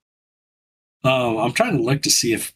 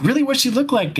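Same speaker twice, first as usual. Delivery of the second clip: put-on high, eager little-kid voice, much higher; imitating an excited child; 13 semitones higher than usual. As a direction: pitch it up like a curious young daughter. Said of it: "And she's like".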